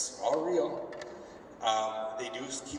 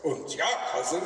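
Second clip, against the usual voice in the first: put-on 1 German accent; 4 semitones higher, 3 dB louder than usual. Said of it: "Krieger comes and goes".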